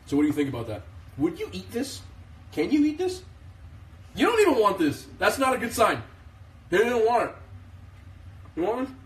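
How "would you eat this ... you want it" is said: high coaxing voice for the dog. Real, not acted. Owner coaxes her dog Bane to try the food, high baby talk. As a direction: sweet-talk the dog into eating, pitched way up.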